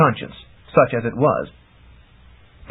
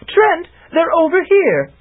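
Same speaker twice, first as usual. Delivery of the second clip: high, slow, louder call through cupped hands; 3 dB louder, slower than usual. A narrator's reading. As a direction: call to Trent across the forest. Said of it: "megaphone gesture".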